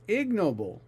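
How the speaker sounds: Ignoble with IG punched; stress on first syllable. Shown as a demonstration. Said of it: "The stress is on the first syllable".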